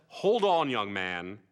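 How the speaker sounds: slow, deliberate mock mentor; sage adviser. Salmonius advising young Kubrick, slow mock-sage counsel. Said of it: "And Salmonius said".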